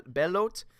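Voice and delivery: BELOT as "bell-OAT"; questioning BELOT, rhymed with oat; trying another pronunciation. Shown as a demonstration. Host testing an author's surname, unsure, BELOT as "bell-OAT". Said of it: "pronouncing your last name right".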